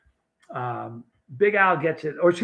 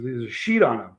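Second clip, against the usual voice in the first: low mock-serious statement; retold grave news; 4 semitones lower than usual. Friend retold breaking bad news in Dallas, mock-grave. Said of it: "He goes".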